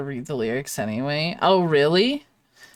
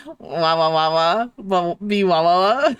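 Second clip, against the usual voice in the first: imitating a sound; 4 dB louder than usual. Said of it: "Is that what it sounded like?".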